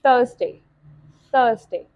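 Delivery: "Thursday" said alone, carefully, with falling tune; phonic sound demo. Shown as a demonstration. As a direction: model "Thursday" for learners to copy. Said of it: "जिस तरह कि ये है". ("Thursday" को अलग से साफ़ बोलकर दिखाना)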